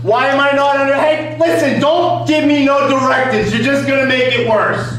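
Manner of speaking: angry retort. Real, not acted. Defendant angrily rebuffs the judge.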